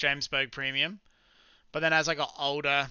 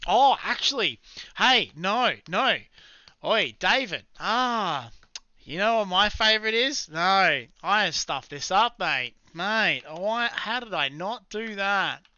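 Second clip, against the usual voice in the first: higher and louder, blurting out a just-remembered answer; sudden excited realisation; 6 semitones higher, 6 dB louder, slower than usual. Real, not acted. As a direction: burst out as it hits you that you forgot. Suddenly remembers his real favourite.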